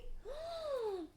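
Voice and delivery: sudden high gasp of delight; sharp gasp. Real, not acted. Reader gasping at the card for pile one, real delight.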